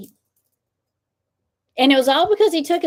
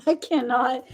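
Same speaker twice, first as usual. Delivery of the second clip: laughing; 3 semitones higher than usual. Real, not acted. Laughing too hard to continue.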